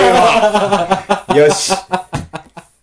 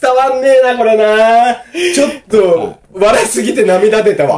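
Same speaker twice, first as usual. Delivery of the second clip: after laughing hard; 4 semitones higher than usual. Real, not acted.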